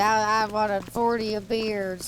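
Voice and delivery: lightly mocked American redneck accent. Streamer imitating American rednecks for chat, lightly put-on redneck accent. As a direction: do a hint of a caricature American redneck. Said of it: "they talk a bit differently".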